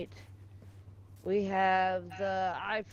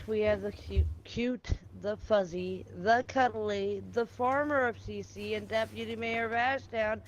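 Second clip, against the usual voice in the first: announcer intro; slower than usual. Acted. Announcing the next guest.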